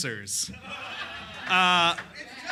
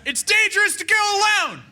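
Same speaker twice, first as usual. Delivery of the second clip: much higher, fast yell; poop yelling; 12 semitones higher, 4 dB louder, faster than usual. Acted. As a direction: yell it like a video game hero. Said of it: "The poop ... yells".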